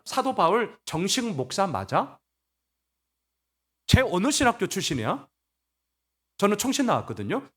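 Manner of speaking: mock-suspicious grilling, pitched a bit up; nitpicking challenge. Church members questioning Paul's credentials, nitpicking challenge. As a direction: play a sceptic demanding credentials. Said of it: "막 이렇게 따지는 거예요".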